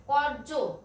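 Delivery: কর্য with a clear r before the j; r sounded. Shown as a demonstration. Teacher modelling for pupils, r sounded in কর্য. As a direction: pronounce the r in কর্য. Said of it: "এখানে র উচ্চারণ হবে".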